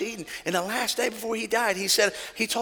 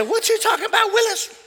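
high, quoted sitcom line; Diff'rent Strokes catchphrase; 12 semitones higher than usual. Retold or imitated. Stranger at the pump quoting the sitcom, higher. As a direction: toss out the famous catchphrase. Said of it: "And they say".

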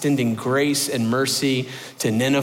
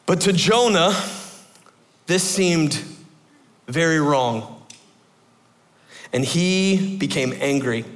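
scripture reading. Acted. Preacher reads Jonah's chapter to the congregation, measured and solemn. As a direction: read it out solemnly.

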